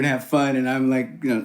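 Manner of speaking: normal talking voice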